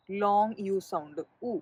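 slowly name long യു sound, then give ഉ as oo; long U demo. Shown as a demonstration. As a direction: set ഉ apart as a pure oo, not the letter name. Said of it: "എന്നാണ് നമ്മൾ വായിക്കേണ്ടത്". (സാവധാനം പറഞ്ഞ്, 'ഉ' എന്ന് വേർതിരിച്ച് ഉച്ചരിച്ച്)

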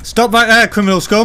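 commanding shout. Pretend. Vigilante confronts criminals, commanding shout. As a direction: bellow it like a vigilante lawman.

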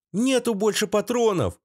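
put-on high squeaky kid's cry; squeaky boy. A narrator's reading. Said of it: "пропищал пацан". (писклявый детский голос)

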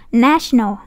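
"National" with a wide-open first A; wide-open vowel. Shown as a demonstration. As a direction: drop the jaw on NA of "National". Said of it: "mở miệng hết cỡ".

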